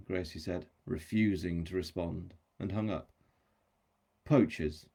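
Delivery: measured audiobook reading with livelier dialogue; story narration. A narrator's reading. Author reads chapter extract to audience, story narration. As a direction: read a novel aloud, voicing the dialogue.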